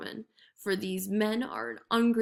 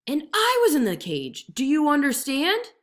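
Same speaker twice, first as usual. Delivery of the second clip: impatient tiger; 6 semitones higher, 6 dB louder than usual. A narrator's reading. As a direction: spell it out to a fool. Tiger explains.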